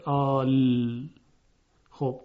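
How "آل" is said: آل with a very long آ then a firm silent لام; held-out demonstration. Shown as a demonstration. Teacher shows the long madd before the silent lam in آل. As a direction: stretch the آ in آل, close on the لام. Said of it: "لام ساکن قرار گرفته".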